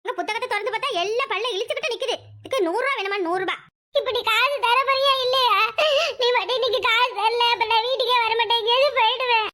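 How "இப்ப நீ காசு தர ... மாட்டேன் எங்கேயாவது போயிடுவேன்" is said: raised-pitch whining ultimatum; petulant demand. Acted. Son demanding money from his mother, petulant threat. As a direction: threaten like a stubborn child.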